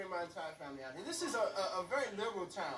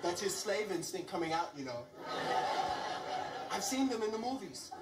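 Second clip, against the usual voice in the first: mock disapproving onlookers. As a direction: mutter it to each other by the wall. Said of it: "people up against the wall like".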